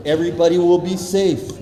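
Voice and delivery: ordinary talk, nothing marked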